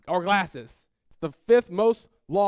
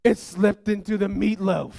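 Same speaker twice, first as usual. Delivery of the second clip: slow, louder dramatic reveal; horrified realization; 2 semitones higher, 5 dB louder than usual. Retold or imitated. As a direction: let the awful truth land slowly.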